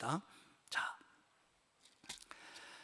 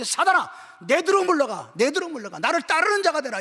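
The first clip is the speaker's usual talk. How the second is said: raised, commanding quote of Jesus; stern rebuke; 5 semitones higher, 4 dB louder than usual. Acted. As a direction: order Satan back, pressing each command. Acts Jesus rebuking Satan.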